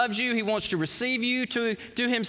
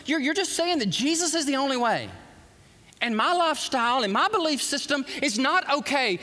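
mock hostile critic, pitch raised; angry accuser; 6 semitones higher than usual. Preacher voicing the angry critic of believers, heated and accusing. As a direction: voice the scornful critic with rising heat. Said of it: "You feel the anger coming out of that?".

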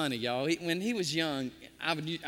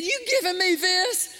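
high, loud, incredulous question; excited; 11 semitones higher, 8 dB louder than usual. Retold or imitated. Cashier offered a twenty by a customer, excited. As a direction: imitate his excited astonishment. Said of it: "He got excited".

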